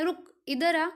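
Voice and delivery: रुक, brief stop, then इधर आ; pause after रुक. Shown as a demonstration. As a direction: set रुक apart as a command before इधर आ. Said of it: "रुक के बाद थोड़ा सा पॉज".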